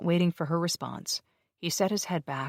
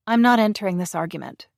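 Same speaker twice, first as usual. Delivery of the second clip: forced smile; 6 semitones higher, 7 dB louder than usual. A narrator's reading. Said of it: "forcing a smile".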